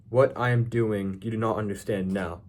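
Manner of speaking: slow, weighty reading of What I am doing; slow, deliberate. Shown as a demonstration. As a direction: let each word land slowly for emphasis. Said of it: "Okay, like, think about that".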